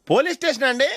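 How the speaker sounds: high, eager voice to the police; eager phone report. Acted. Drunk driver reporting the other man to the police, high and eager. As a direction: sound keen to get him caught.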